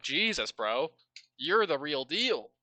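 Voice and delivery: loud, hyped dude-bro challenge; big bro swagger, pushed loud. Acted. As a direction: talk like an impressed bro daring a buddy. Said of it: "duding it out like dude bros".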